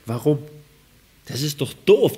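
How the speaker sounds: ordinary talk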